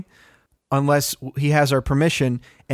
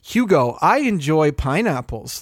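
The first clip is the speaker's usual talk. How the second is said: mock scolding; slower than usual. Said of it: "you could be saying to him".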